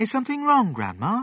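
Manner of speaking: gentle, kind, very high-pitched and quick. A grandson checks on his grandma, who is stuck in the air: asking kindly. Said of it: "he asked kindly".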